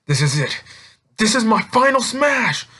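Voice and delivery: rising high on final smash, mock heroic; hero's battle cry. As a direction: call out the final move like an anime hero. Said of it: "and he's like".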